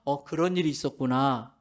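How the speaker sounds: empathetic reply demo. Shown as a demonstration. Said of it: "우리 남자들만 따라 해보겠습니다".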